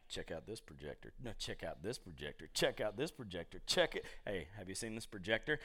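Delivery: low, quiet, nagging pitch; low sly ad voice. Pretend. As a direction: whisper the ad like a temptation. Voicing the targeted ads.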